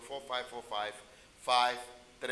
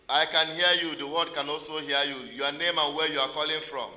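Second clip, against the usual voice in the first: loud and higher, calling down the line; nearly shouting to a faint caller; to someone hard of hearing; 4 semitones higher, 10 dB louder than usual. Real, not acted. Caller can't hear host.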